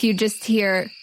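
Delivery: ordinary delivery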